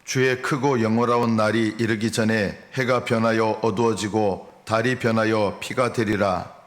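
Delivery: even, measured Bible reading; scripture reading. Acted. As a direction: read the verses out solemnly and steadily. Reads scripture aloud to congregation.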